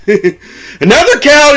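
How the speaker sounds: high, loud, drawn-out exclamation; hammed-up amazed cry; mock astonishment.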